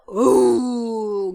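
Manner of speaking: long drawn-out lion cry; imitated lion roar. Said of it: "이렇게 부르짖냐면". (사자가 부르짖는 소리 흉내)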